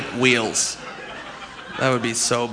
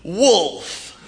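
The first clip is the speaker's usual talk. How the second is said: higher, slow, grandly announcing the prize; game show host; 8 semitones higher, slower than usual. Retold or imitated. Host proudly presenting a wolf as the prize, in an overblown announcer voice. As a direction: sell the wolf like a luxury car. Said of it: "If they're like".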